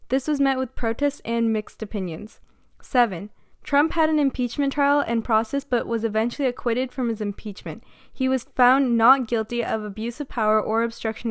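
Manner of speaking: steady newsreader delivery; news anchor. Acted. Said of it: "that was me sounding like a great news anchor".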